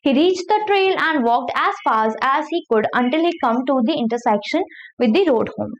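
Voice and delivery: slow, careful reading of an English novel passage; slow read-aloud. Acted. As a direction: read each word out slowly for the class. Teacher reading novel aloud slowly. (धीमी आवाज़ में पढ़कर सुनाना)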